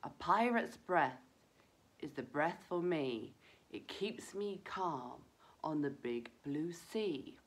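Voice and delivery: calming rhyme. Shown as a demonstration. Reciting a calming rhyme to children.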